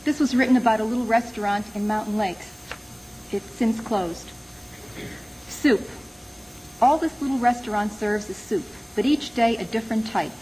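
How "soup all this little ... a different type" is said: measured poem recital with pauses between phrases; poetry reading. Acted. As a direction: read it as a poem, letting each line fall. Reads own poem aloud.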